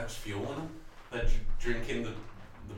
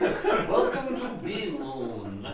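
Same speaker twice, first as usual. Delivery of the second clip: slow bee host voice; 5 semitones higher, 5 dB louder, much slower than usual. Acted.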